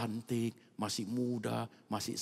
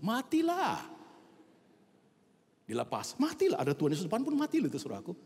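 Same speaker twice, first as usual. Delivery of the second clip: much higher and louder, preaching at full force; dramatic shout; 7 dB louder than usual. Acted. Preacher shouting to the church how the wheelchair fell. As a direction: cry out the death like a thunderclap. Dramatic climax of a fatal fall.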